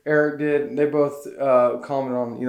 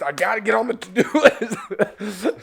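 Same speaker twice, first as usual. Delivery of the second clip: teary laugh, higher and quicker; laughing through tears; 7 semitones higher, 4 dB louder than usual. Real, not acted. Embarrassed at her own tears, teary laugh. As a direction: laugh at yourself mid-sob.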